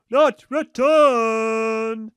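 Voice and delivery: very slow, loud, stretched out; drawn out. Real, not acted. Complaining to the audience, slow and loud. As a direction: drag it out in exasperation. Exasperated complaint about pigeons.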